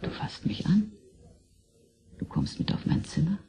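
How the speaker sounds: a teasing come-on, all in whisper; whispered seduction in his ear; seductive whisper. Acted. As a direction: whisper the invitation intimately. Luring him up to her room.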